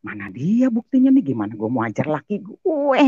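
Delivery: retold exasperated grumble; exasperated complaint. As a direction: vent the frustration. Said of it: "Saya bilang gitu kan".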